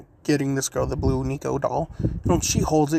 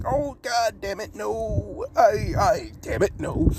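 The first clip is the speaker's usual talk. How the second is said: flustered panic; 6 semitones higher, slower than usual. Acted. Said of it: "Naruto was just like".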